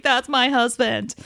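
high, dreamy swoon. Retold or imitated. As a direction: sigh it out lovestruck. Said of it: "he's like".

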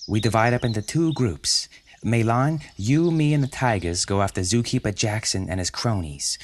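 brisk boss giving orders, just lightly voiced; lightly voiced Penguin. Penguin lays out the plan.

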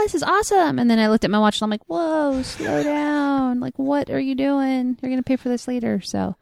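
ordinary talk, nothing marked

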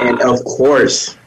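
slow, booming trailer announcer; movie trailer voice. Pretend. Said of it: "The Action Man voice".

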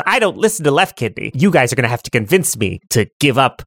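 lightly voiced stubborn twin, sinking low; haughty right kidney. Right kidney challenging players to persuade him, mildly haughty. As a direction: lay down terms with measured superiority. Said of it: "Right Kidney goes".

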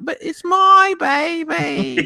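high, slow wailing mock Australian accent; over-the-top mock Australian accent on "my baby". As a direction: ham up a crying Australian mother in an Australian accent. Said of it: "and then the Australian".

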